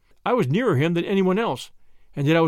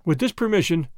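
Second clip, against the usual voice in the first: ordinary delivery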